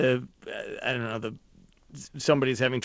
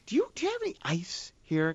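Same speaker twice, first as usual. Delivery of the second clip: timid request; 5 semitones higher, 7 dB quieter than usual. Retold or imitated. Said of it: "I go".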